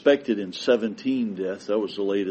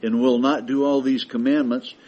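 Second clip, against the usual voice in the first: scripture read as God; 4 dB louder than usual. Acted. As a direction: thunder God's warning from Leviticus. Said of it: "God says".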